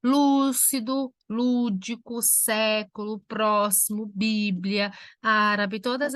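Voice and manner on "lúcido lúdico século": "Lúcido, lúdico, século" slowly, each first syllable stressed; antepenultimate stress. Shown as a demonstration. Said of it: "a sílaba tônica recai na terceira". ("Lúcido, lúdico, século" com a primeira sílaba bem marcada)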